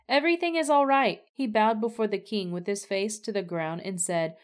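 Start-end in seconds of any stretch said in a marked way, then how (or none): 0.1-1.2 higher, louder and fast eager call; crying out. A narrator's reading. Ahimaaz arriving and crying out to the king, eager loud call. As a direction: blurt the relief out as you arrive. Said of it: "Ahimaaz cried out to the king".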